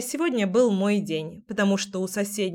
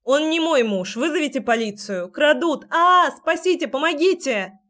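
high, loud cries for help; calling for help; 6 semitones higher, 5 dB louder than usual. A narrator's reading. Heroine calls neighbour to save her, loud shouting. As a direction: scream for rescue into the street.

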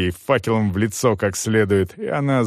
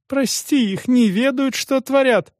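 much higher pleading wail to God; lamenting prayer; 14 semitones higher than usual. A narrator's reading. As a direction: beg heaven's mercy for them. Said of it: "причитал отец Виталий".

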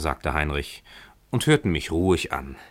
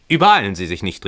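called out; 5 dB louder, faster than usual. Acted. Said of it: "rief Heinrich".

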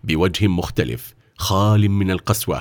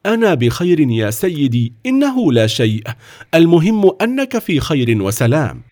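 higher-pitched, unfussy reassurance; simple reassurance; 6 semitones higher than usual. A narrator's reading. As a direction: play it down simply. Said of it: "قال في بساطة".

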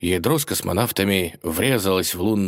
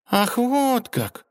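much higher, slow drawn-out mermaid; disappointed drawl; much slower than usual. A narrator's reading. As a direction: stretch it out, let down. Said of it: "разочарованно протянула русалка".

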